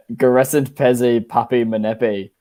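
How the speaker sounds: slow made-up Italian-sounding words; fake Italian gibberish. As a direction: speak mock Italian gibberish. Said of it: "That is the tongue of a fake Italian".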